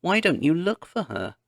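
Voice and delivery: high urgent cry; cried out. A narrator's reading. Carrie crying at Laura to go search. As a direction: demand it in panic. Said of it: "Carrie cried".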